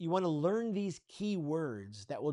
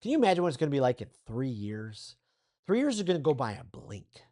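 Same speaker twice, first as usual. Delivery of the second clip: lightly inspiring, painting the future; vision voice. Shown as a demonstration. Coach paints a future over coffee with a client, mildly inspiring. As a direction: invite the listener to dream along, a touch more eager. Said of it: "I'm always gonna talk in a vision voice".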